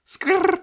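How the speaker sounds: loud, high-pitched trilled screech; rolled skrrr noise. Shown as a demonstration. Showing a friend the only way they can do it, high trilled skrrr. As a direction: burst out a short rolled "skrrr". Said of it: "ich kann's nur so".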